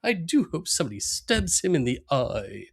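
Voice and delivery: lightly voiced snooty lady; effete woman. Cohost voices fine lady Homer knocked over, snooty mock voice. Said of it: "She goes".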